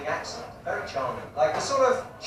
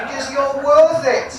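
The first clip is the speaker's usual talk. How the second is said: slow, loud advert tagline delivery; ad slogan voice; 8 semitones higher, 10 dB louder, slower than usual. Pretend. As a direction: sell it like a shampoo commercial. Quotes the cosmetics slogan.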